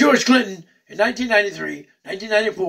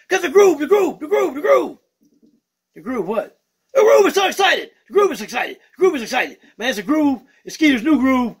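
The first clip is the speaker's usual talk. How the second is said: excitable puppet bird greeting the fans; Skeeter the bird puppet; 3 semitones higher than usual. Acted. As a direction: play a cheeky funk-loving bird puppet.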